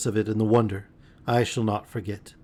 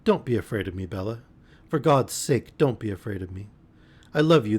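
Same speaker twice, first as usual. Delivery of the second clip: soothing. Acted. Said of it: "soothing her as best I could".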